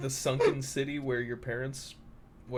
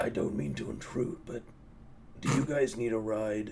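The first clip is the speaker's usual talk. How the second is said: put-on dragon character voice; 3 semitones lower than usual. Voicing a green dragon offering the party a ride: put-on green dragon voice. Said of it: "I don't remember the voice I did, but probably something like this".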